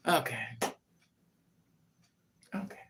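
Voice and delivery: ordinary delivery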